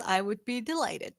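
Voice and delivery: breathy whispered acceptance. Acted. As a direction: hush it, barely voiced.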